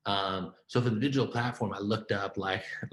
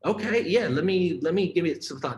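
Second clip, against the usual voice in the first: quick, keen yes, pitched up and louder; retelling his own eager yes, pitched up and louder; eager agreement; 8 semitones higher, 5 dB louder than usual. Retold or imitated. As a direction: jump at the offer. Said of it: "so I said".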